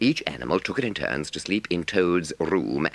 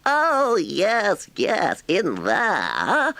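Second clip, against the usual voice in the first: impatient; 6 dB louder, much slower than usual. A narrator's reading. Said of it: "said Toad impatiently".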